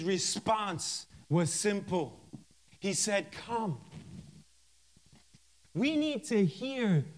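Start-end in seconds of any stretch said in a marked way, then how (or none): 3.3-3.8 soft, hushed call; the still voice of the Lord, said softly; still small voice. Acted. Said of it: "that still voice".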